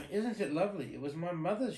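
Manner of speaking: delighted. Acted. Cinderella delighted with dress.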